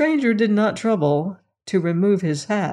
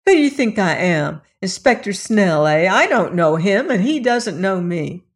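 louder, indignant questions; spirited protest; 4 dB louder than usual. Acted. Lilas protests to the policeman, loud and indignant. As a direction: push back at the policeman. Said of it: "Lilas cried with a show of spirit".

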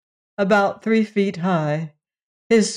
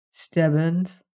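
gently. Acted. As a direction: say his name gently, no blame. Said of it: "I said gently".

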